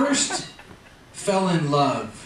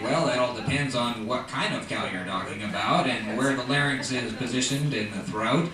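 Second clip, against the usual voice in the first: put-on know-it-all kid; 7 semitones lower, 5 dB quieter than usual. Genius kid answers teacher.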